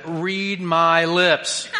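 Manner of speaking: slow, deliberate read my lips; lightly voiced president, each word spaced; mock presidential, very slow; George H W impression. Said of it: "That was for George H W".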